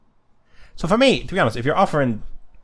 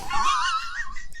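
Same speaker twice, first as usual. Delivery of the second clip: shrill shouted laugh; cracking up at the text; burst of laughter. Real, not acted. Laughing at odd site blurb.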